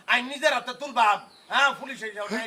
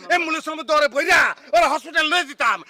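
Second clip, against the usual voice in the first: raised, angry threat; loud threat; 6 dB louder than usual. Acted. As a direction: shout the threat out. Son threatens father. (জোরে হুমকি)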